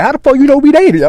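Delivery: high-pitched, incredulous demand; acted incredulity. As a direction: question it as if caught off guard. Retold startled question to his girl.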